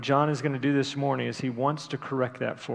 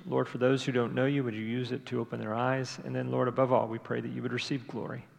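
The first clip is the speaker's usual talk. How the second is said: softer, falling away toward the amen; prayer; 4 dB quieter than usual. Real, not acted. Pastor praying to God before the message, quiet prayer. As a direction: pray aloud quietly for the congregation.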